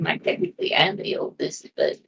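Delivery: hushed whisper to one listener; soft confiding whisper; whispered aside. Acted. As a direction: whisper it discreetly, barely voiced. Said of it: "I'll whisper to Adelaide".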